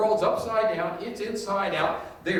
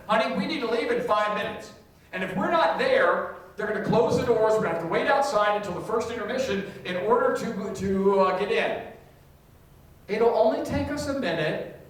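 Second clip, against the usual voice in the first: mild impatient spouse; 4 semitones higher, 4 dB louder than usual. Retold or imitated. Impatient spouse before church.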